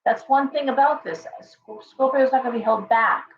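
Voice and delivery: usual speaking voice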